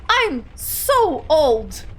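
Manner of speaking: put-on drawn-out old lament; slow drawn out. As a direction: stretch it out slowly. Aunt laments her age.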